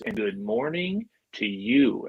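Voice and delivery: lightly imitated movie star, drawn out; Vince Vaughn. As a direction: stretch it like a slick film comedian. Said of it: "just like he is in the movies".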